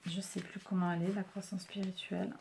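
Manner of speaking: hushed, half-whispered wondering aloud; very soft private mumble while searching; muttering to herself. Real, not acted.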